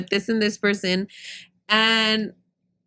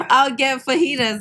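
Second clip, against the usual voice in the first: laughing imitation; 3 semitones higher than usual. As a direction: giggle through his sweet order. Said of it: "That's how I talk".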